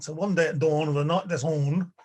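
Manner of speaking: lightly put-on Belfast accent; a touch of Belfast in the vowels. Shown as a demonstration. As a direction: make DAWN rhyme with ON, Belfast-style. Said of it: "say it in a Belfast accent".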